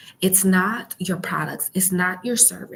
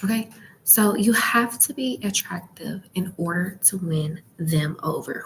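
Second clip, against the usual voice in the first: library whisper. Real, not acted. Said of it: "um, whispering".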